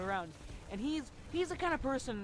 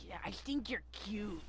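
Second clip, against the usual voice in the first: imitated friend's voice; 3 dB quieter than usual. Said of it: "his voice is".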